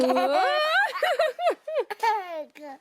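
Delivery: squealing giggle; a high burst of delighted laughter. Real, not acted. Baby asks again.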